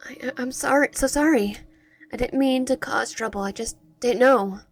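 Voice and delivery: lightly acted pleading, stumbling into the apology; nervous apology. Apologizing to an angry captor, mildly nervous and stammering.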